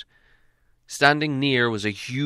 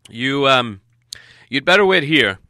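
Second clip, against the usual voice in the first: louder, hesitant wizard; wizard giving orders; 3 semitones higher, 10 dB louder than usual. A narrator's reading. Wizard telling dwarfs to wait, loud and halting. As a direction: think aloud, then instruct firmly.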